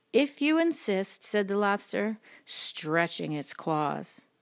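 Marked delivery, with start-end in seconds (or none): 0.1-1.2 high, lilting storybook reply; obliging reply. A narrator's reading. Creature accepting the ladybug's challenge, high and lilting. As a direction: accept the dare in a raised voice.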